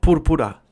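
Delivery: purpura with pure oo and a tapped R; Spanish pronunciation. Shown as a demonstration. Speaker showing the word in Spanish, firm "purpura" with tapped R. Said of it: "but in Spanish".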